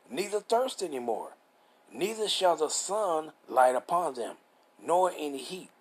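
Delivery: slow, measured Bible reading; deliberate, phrase-by-phrase preacher's reading; scripture reading. Real, not acted. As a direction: read the verse out with drawn-out key words. Reads scripture aloud.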